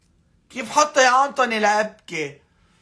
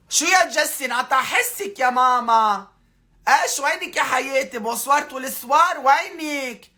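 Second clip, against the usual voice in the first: mother calling out; 4 semitones higher than usual. Acted. Calling out to missing Jessy.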